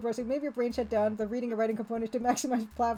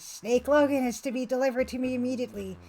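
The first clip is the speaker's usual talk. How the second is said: raspy evil voice. Acted. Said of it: "Kane demands in his raspy, evil voice".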